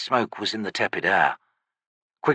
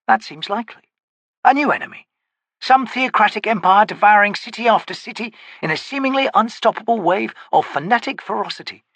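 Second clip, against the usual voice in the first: lightly raised, wry wizard voice; wizard character voice; 10 semitones higher than usual. Acted. Quick Ben speaks before narration.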